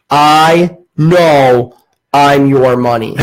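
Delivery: says it through a laugh, slow; cracking up at own cheek; laughing at how bold it was. Retold or imitated.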